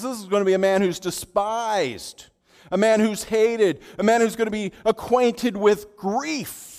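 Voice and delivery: loud, high declaiming prophecy; preacher thunders Isaiah's words about Jesus; prophetic proclamation. Acted. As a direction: proclaim it at full force.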